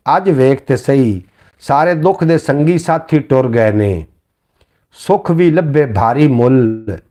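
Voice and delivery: slow, measured verse with each refrain held; lightly sung-through Punjabi poem reading; poem recitation. Acted. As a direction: recite it like a mushaira couplet, drawing out अज वेख ते सही.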